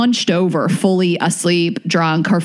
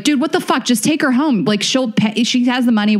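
higher-pitched, imitated exasperated pleading; retold exasperated protest; 5 semitones higher than usual. Friend urging a cab driver to take her home, imitated exasperation. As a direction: argue it like a fed-up friend, retold.

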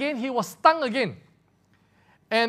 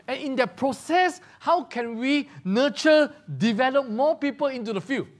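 usual speaking voice

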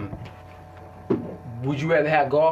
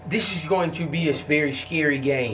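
slurring words. Real, not acted. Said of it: "You're slurring your words".

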